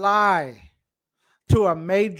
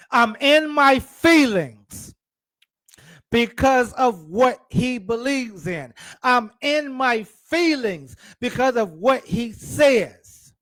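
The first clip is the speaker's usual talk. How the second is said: mock sinner; 6 semitones higher than usual. Preacher voices defensive sinner.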